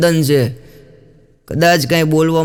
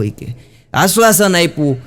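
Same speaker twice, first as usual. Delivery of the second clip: normal talking voice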